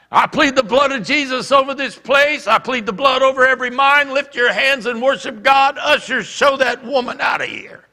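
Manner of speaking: loud, high, driving proclamation; commanding prayer shout. Retold or imitated. College president praying and ordering ushers, shouting. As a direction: take charge of the room at full voice. President takes charge at microphone.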